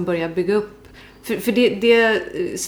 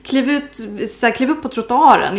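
higher-pitched retold urging; nervous calling out; 4 semitones higher, 3 dB louder than usual. Telling a colleague to get off the street, mock nervous call. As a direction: urge them back, voice raised in pitch. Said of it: "Jag blir nervös".

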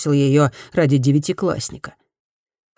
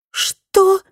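shocked high cry, louder; blurted out; 4 dB louder than usual. Acted. Fumi hears the absurd reason, shocked blurted cry. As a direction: burst out in disbelief. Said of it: "выпалила Фуми".

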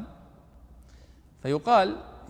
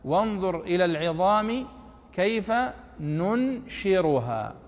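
Quran recitation, Nafi's reading; 2 semitones higher, slower than usual. Shown as a demonstration. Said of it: "في قراءة نافع".

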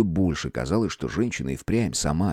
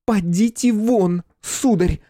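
high, slow, trembling with rage; furious lady; 14 semitones higher, 5 dB louder, much slower than usual. A narrator's reading. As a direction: throw him out, shaking with anger. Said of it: "дрожащей рукой указала на дверь".

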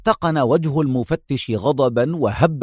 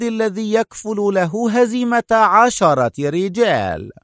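raised, doubting voice of an interrogator; mock amazement; 7 semitones higher than usual. A narrator's reading. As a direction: marvel sceptically, stretching the end. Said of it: "مستطردا".

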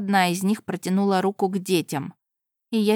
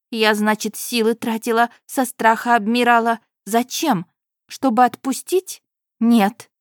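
higher, louder indignant voice; indignant refusal; 4 semitones higher, 5 dB louder than usual. Acted. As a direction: refuse hotly. Heroine indignant.

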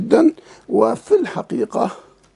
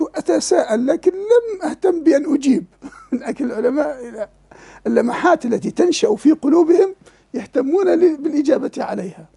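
words bubbling with real laughter, higher; laughing while talking; 5 semitones higher than usual. Real, not acted. Sheikh to students, marvelling at a scholar's insight, laughing. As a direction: tell it while laughing with delight.

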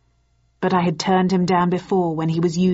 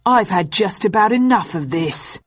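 indignant; 2 semitones higher than usual. Acted. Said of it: "he said indignantly".

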